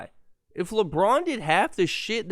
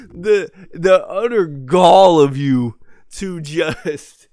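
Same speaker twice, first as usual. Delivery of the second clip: mock outrage; 7 dB louder, much slower than usual. Real, not acted. Slow indignant mock-outrage.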